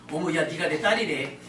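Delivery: a hammed-up drama revelation, drawn out; preacher mimicking a soap opera parent discovering a daughter, mock shock; slow, lightly voiced soap opera shock. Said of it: "드라마 하다 보면".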